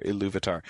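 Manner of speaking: Iluvatar stressed on LU; i-LU-va-tar; stress on second syllable. Shown as a demonstration. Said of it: "the second syllable there".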